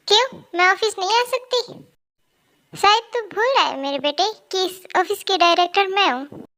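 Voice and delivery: indignant, scolding challenge to a son; stern, offended mother; angry mother. Acted. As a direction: pull rank on your son, mildly cross. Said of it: "mom तो आज बहुत गुस्से में लग रही है".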